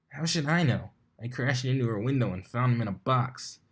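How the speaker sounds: a hint of a tomboy pony, defensive; lightly voiced Dash. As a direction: shrug it off, mildly indignant.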